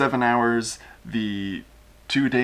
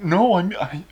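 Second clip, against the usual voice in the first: high nervous voice; 10 semitones higher, faster than usual. Acted. Eli Verdet replying.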